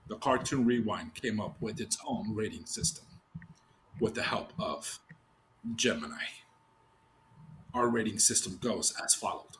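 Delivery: lazy, low seductive read; sexy voice. Pretend. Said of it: "but this is my sexy voice".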